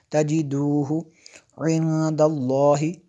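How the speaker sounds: इंदल्लाहि slow, the न hidden in a nasal hum; ikhfa with ghunna. Shown as a demonstration. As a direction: recite तजिदूहु इंदल्लाहि with a held ghunna. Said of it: "मैंने गुन्ना किया". (इंदल्लाहि में न पर गुन्ना)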